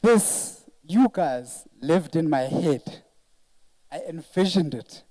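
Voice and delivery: really overcome, pushing the words out slowly; halting, emotional delivery with long pauses. Real, not acted. Host telling guests they lived in their head, emotional. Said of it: "pardon me when I'm this emotional".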